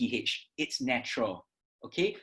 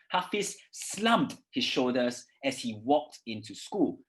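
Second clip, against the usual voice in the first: slumped punched, each word clear; stress on slumped. Shown as a demonstration. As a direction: lean on slumped and shoulders. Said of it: "how I'm stressing it".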